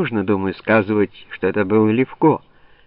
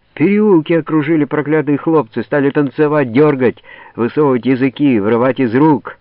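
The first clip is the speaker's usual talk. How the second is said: взволнованный рассказ; 5 semitones higher, 5 dB louder than usual. Acted. Десятские оправдываются перед Головой.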